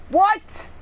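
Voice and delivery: sharp, very high disbelieving yelp; squeaky shocked question; shocked what. Real, not acted. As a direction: jolt of real surprise. Sudden game event.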